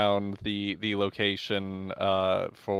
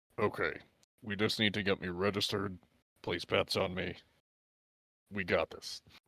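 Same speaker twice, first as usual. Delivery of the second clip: quiet, softly spoken; 9 dB quieter than usual. A player's character tells the rest of the group, speaking quietly. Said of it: "I'm gonna say quietly to to the rest of the group".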